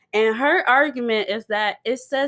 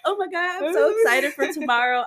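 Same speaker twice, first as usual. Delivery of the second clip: lightly gushing, higher-pitched retold excitement; excited gushing; 5 semitones higher than usual. Co-host reads out the group chat text, mildly gushing.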